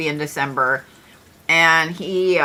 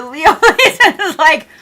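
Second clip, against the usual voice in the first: words giving way to laughter; breaking into laughter; 9 semitones higher, 5 dB louder than usual. Real, not acted. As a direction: start straight, crack up midway through. Cracks up over the Leo count.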